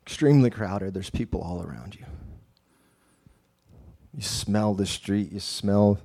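calm storyteller guiding prayer; guided meditation narration. Acted. Guided imaginative scene narration.

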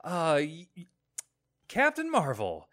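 lightly hammed-up hype for Captain Marvel; mock movie pitch. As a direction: sell her like an eager trailer voice. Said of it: "this movie tried to be".

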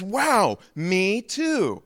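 high, wowed agreement; acted astonishment at finding a kindred soul; amazed delight. First man to a fellow Baptist, high amazed delight.

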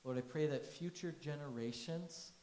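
steady prayer voice; pastor's closing prayer. Acted. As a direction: pray over the congregation.

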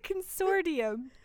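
Consortium with a D-like sound before -ium; own pronunciation. Shown as a demonstration. Co-host answering how they say it, own pronunciation. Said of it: "How do you say it?".

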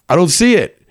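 a high, puzzled call from the closet; confused frat boy. Retold or imitated. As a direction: sound lost among the coats.

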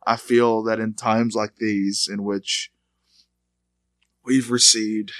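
whisper-like mourning of the episode; hammed-up depressed intro; mock hushed tone. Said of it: "I'm sorry about this hushed tone".

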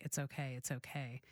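soft, low imitation of comforting; hushed, mildly consoling; retold reassurance. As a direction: gently quote someone soothing his wife. Retelling husband comforting crying wife.

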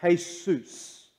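Jesus said as Greek hay-soos; Jesus as HAY-soos, Spanish-like; Greek pronunciation. Shown as a demonstration. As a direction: sound out Jesus as hay-sus. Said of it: "transliterated from the Greek".

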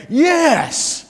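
a high, gleeful yes; little gleeful cheer; mock triumphant yes. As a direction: cheer the villain's downfall. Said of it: "you're saying".

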